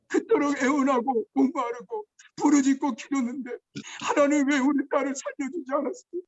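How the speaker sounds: crying out to God, voice catching; a grieving father's tearful cry to God; tearful pleading prayer. Retold or imitated. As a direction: plead through tears, begging. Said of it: "울면서 불면서 간구하고".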